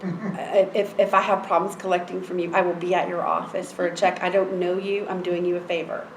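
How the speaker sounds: matter-of-fact, no-nonsense terms; firm and understated, no pleading; retold blunt warning. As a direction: lay down payment terms bluntly. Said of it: "I'm very blunt".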